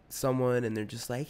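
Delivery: ordinary talk, nothing marked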